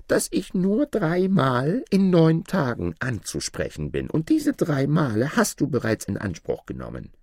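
high-pitched dwarf voice; reply up high as the dwarf. Acted. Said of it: "erwiderte der Zwerg". (hohe Zwergenstimme)

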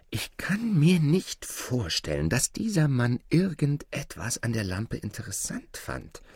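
doubtful mother. Acted. Mother doubts the lamp's worth. (leicht höhere, zweifelnde Mutterstimme)

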